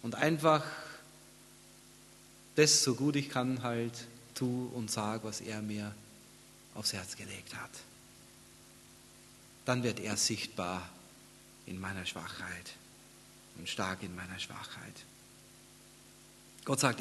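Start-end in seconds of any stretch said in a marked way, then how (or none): 3.6-14.9 low, soft, fading nearly to a whisper; softly, humbly trailing down; hushed sermon reflection. Real, not acted. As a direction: let the voice sink into quiet reverence.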